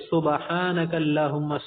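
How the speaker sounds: سبحانک read slowly as subahanak, with an extra vowel; wrong pronunciation demo. Shown as a demonstration. The teacher mimics the mistaken reading for students. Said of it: "بعض لوگ کیا کرتے".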